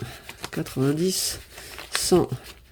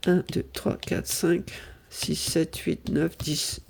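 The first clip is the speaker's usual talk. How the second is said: soft unvoiced counting of squares; whispered counting; 5 dB quieter, much slower than usual. Real, not acted. Moving her piece along the board, whispered count. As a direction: count under your breath.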